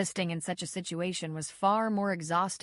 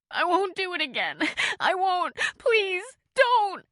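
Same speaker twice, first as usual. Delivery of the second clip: much higher, louder sobbing plea; terrified begging; 12 semitones higher, 7 dB louder than usual. A narrator's reading. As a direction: cry out from a nightmare. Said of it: "she sobbed".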